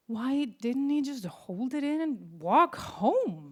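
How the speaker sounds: slow, laugh running through; amused disbelief. Real, not acted. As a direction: crack up asking it. Laughing at the memory.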